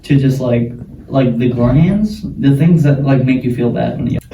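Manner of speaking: talking with a burning mouth; speaking through jalapeno heat; mouth burning from spice. Real, not acted. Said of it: "Roof of my mouth is on fire".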